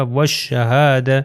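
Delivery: والشہادہ as "wash-shahaada"; والشہادہ with the lam silent, long "aa"; waw joined to sheen. Shown as a demonstration. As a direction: recite والشہادہ with a doubled sh. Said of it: "یہ شین سے مل جائے گا".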